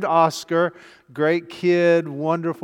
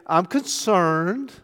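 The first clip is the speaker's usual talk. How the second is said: euphemism; 3 dB quieter, much slower than usual. Shown as a demonstration. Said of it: "I'll just say".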